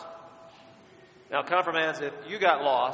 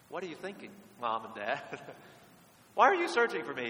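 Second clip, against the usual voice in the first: incredulous; 6 dB quieter than usual. Retold or imitated. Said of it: "you're incredulous".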